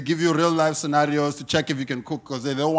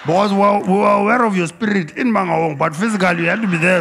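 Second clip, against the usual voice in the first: mock preacher; 3 semitones higher, 4 dB louder than usual. Preacher voice mocking a church elder.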